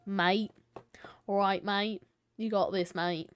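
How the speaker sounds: casual Australian mate-talk; Australian accent. Retold or imitated. Imitating friends going Australian in games, Australian accent. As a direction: put on an easy Australian accent. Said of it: "start going Australian".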